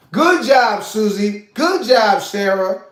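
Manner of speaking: put-on praising little girls.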